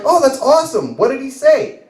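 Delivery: high-pitched, re-enacted eager reply; light up with hopeful curiosity; acted thrilled husband; eager excitement. Eager reply to wife's news.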